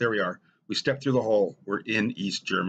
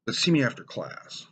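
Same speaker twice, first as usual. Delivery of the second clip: stern teacher; 4 semitones higher than usual. Retold or imitated. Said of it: "He said".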